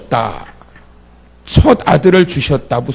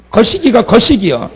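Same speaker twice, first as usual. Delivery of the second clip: laughing; 5 semitones higher than usual. Real, not acted. Joking about dialect.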